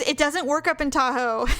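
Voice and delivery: laughing through the quote; can barely get the words out for laughing. Real, not acted. Quoting Larry while laughing.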